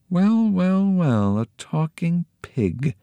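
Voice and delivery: lightly voiced greedy host, swooping up high; scheming Pirandello. A narrator's reading. Pirandello explaining his scheme to the kids, gleeful. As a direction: tell your clever plan with glee.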